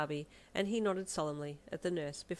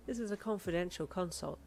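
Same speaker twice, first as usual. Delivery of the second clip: understated firm doctor; authoritative. Acted. Doctor dismissing the parents, authoritative. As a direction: state it with authority. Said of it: "the doctor said authoritatively".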